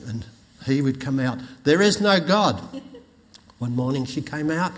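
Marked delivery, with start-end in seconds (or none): 1.6-2.6 louder, raised retort; atheist yelling. Retold or imitated. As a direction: call it back defiantly. Atheist neighbour shouting back.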